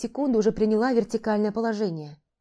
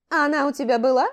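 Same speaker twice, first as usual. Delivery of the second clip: snorting scoff; 6 semitones higher, 5 dB louder, faster than usual. Acted. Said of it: "Фыркнул Деург".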